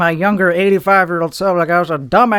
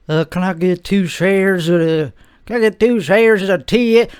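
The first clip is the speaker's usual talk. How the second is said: hesitant customer. Acted. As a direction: fumble through the order unhurriedly. Slow customer ordering from hurried broker.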